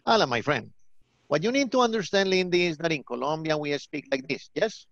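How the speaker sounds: thick Colombian-accented English; stronger Colombian accent. Shown as a demonstration. Teacher explaining to Lindy, strong Colombian accent. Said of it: "a stronger Colombian accent".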